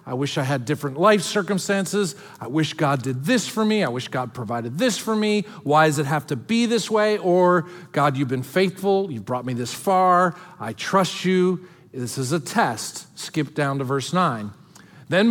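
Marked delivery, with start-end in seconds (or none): 0.1-7.2 imitating grumbling. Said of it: "whether we're going to grumble". 7.9-13.1 quiet trusting prayer. Retold or imitated. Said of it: "or we're going to trust".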